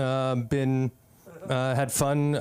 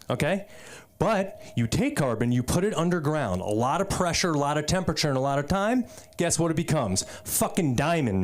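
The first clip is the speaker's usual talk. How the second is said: lightly acted pep talk, gradually more insistent; corny supportive friend; 2 semitones higher than usual. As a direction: sell it like a self-help video, building up. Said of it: "very supportive, but in, like, kind of a corny way".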